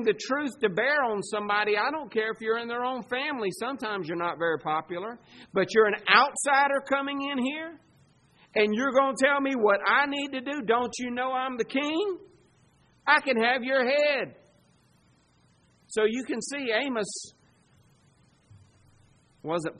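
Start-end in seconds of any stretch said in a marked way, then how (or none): 5.5-14.4 higher-pitched, affronted royal challenge; indignant king. Acted. King rebukes the outsider prophet, indignant challenge. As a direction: push back as an insulted ruler.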